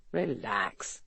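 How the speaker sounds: low, soft and calm. A narrator's reading. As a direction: settle him down calmly. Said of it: "West said calmly".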